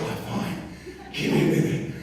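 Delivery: acted winded, voiceless gasping words; out of breath. Carol dripping sweat, asked if okay, out of breath. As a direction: imitate someone too puffed to talk.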